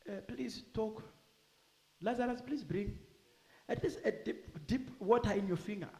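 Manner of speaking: soft, hushed begging, partly whispered; pleading rich man. Retold or imitated. Rich man in hell begging Lazarus, faint hushed plea. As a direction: beg faintly for a drop of water. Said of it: "listen to his request".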